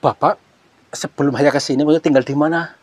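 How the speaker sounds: loud call to someone across the cave; calling out loudly. Real, not acted. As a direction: raise your voice to reach him. Calls out to the man.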